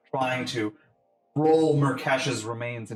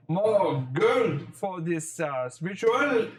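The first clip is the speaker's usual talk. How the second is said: hesitant, higher-pitched obliging character voice; put-on accommodating official, rising at the end; Najah; 6 semitones higher, slower than usual. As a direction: offer it haltingly, stretching the final words.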